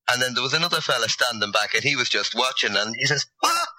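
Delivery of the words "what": high-pitched mock bafflement; baffled exclamation. Retelling a lad not understanding her Irish, baffled. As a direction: imitate a baffled "what?", pitched up. Baffled boy's reply acted out.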